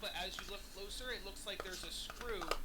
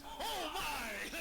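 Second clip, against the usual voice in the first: surprised; 8 semitones higher, 3 dB louder than usual. Acted. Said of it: "he goes".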